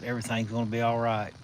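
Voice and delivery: calm a scared patient like an angel would; gentle sweet voice. Retold or imitated. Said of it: "in just a gentle, sweet voice".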